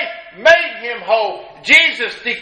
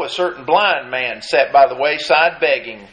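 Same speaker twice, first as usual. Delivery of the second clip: normal talking voice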